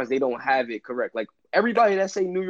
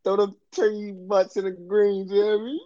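playful bit; 5 semitones higher than usual. Acted. Playful bit about turkey greens.

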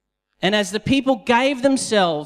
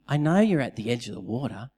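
gentle encouragement; 3 semitones lower than usual. Retold or imitated. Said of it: "the Lord is just saying".

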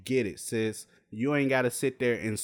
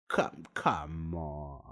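disbelief; 9 semitones lower, 7 dB quieter, much slower than usual. Real, not acted. Slow disbelieving groan.

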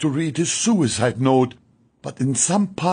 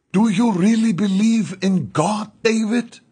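higher, sharper challenge; sharp, offended; 7 semitones higher, 3 dB louder than usual. A narrator's reading. Offended nurse Rita challenges David's faith sharply, pitched up. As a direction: snap the question at him, stung. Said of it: "She became offended and spoke sharply".

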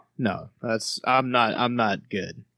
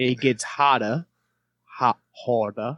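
searching Australian pronunciation; Australian accent. Shown as a demonstration. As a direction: work out the Australian vowels. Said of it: "We'll do it in Australian".

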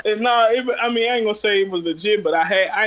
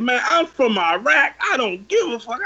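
retold defiant scream; 5 semitones higher than usual. Driver screaming where he's from, mock defiance. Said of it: "had a nigga scream a hood at me".

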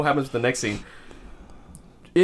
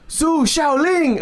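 very high, slow, louder name call; drawn-out announcer call; 12 semitones higher, 4 dB louder, much slower than usual. Retold or imitated. Announcer revealing the owner's name, drawn-out ring call.

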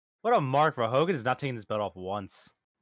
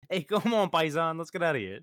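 higher-pitched cartoon character impression; Mario; 4 semitones higher than usual. Riffing on the cartoon chef, a light Mario impression. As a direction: lightly put on a cartoon plumber's voice. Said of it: "That sounded like Mario".

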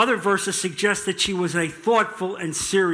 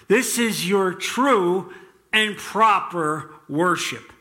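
slow, deliberate Bible reading; solemn, spaced-out public reading; scripture reading. A narrator's reading. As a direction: read the exhortation out in measured, weighty phrases. Reads Romans passage aloud.

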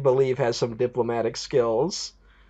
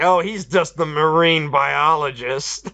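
mock dismissive; 3 semitones higher, slower than usual. Mocking military guy.

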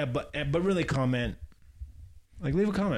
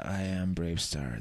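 hero voice; 5 semitones lower, 4 dB quieter, slower than usual. Pretend. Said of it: "some freaky ass".

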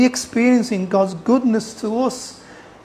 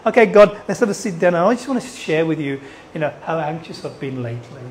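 lower, softening, measured chat to God; polite prayer; 6 semitones lower, 5 dB quieter, faster than usual. Acted. A preacher mimics a tidy prayer to God, politely restrained. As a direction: make it a composed, trailing-off sit-down request. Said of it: "you won't do it like that".

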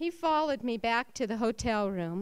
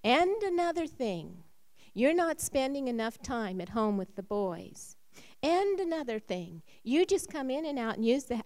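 angry list; 2 semitones higher than usual. Retold or imitated. Wife listing her husband's faults, rising anger. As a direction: pile on the complaints.

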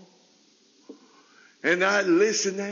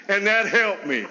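laughing; 2 semitones higher than usual. Real, not acted. Repeated line, laughing take.

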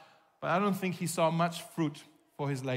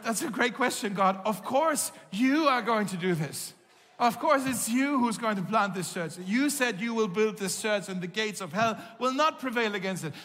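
impassioned retold plea to God, pitched up; retold tearful outcry; 4 semitones higher than usual. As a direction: cry out to God, overwhelmed but without sobbing. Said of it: "I was just crying, crying, crying".

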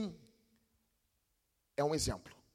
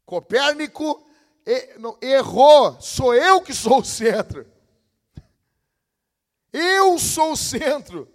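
higher, louder, slow self-centred boast; mocking egotist; 6 semitones higher, 10 dB louder, slower than usual. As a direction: puff up like a self-important egotist. Mocking self-centred modern man. (imitando um egocêntrico, mais alto e arrastado)

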